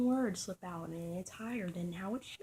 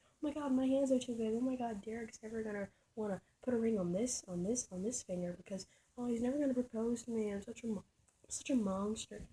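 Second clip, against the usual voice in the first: higher, whiny mock lament; whiny girl imitation; 4 semitones higher than usual.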